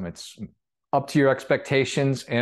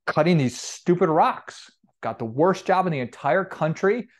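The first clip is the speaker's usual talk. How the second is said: grumbling worker; 5 semitones higher than usual. Acted. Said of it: "It's like".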